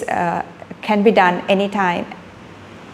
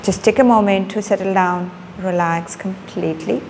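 unhurried meditation guide with long pauses; calm instructions, one body part at a time; guided body scan; 4 dB quieter than usual. Real, not acted. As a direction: guide them gently into relaxing, leaving space between phrases.

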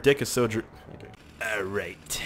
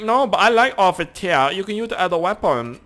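mock voice; 8 semitones higher, 7 dB louder than usual. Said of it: "He's like".

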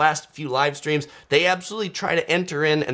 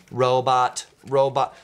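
stiff, mechanical robot voice. Shown as a demonstration. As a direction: say it like a machine. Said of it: "I can do my robot voice".

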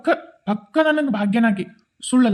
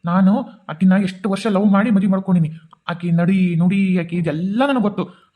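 raised voice, pressing hard for the truth; firm demand; 3 semitones lower than usual. Acted. Son confronting his mother about his wife, demanding the truth in a raised voice. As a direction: demand answers from your mother, no softening.

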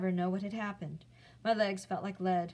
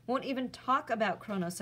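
snapped; 4 semitones higher than usual. Acted. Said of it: "I snapped".

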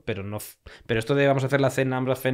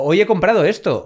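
mock influencer; 7 semitones higher, 6 dB louder than usual.

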